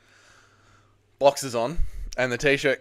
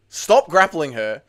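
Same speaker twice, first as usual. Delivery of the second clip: exasperated yell; 4 dB louder, slower than usual. Real, not acted.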